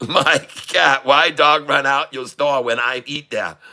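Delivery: hammed-up Chinese-accented English; mock Chinese accent. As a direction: put on a broad comic Chinese accent. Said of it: "I'll talk like a Chinese".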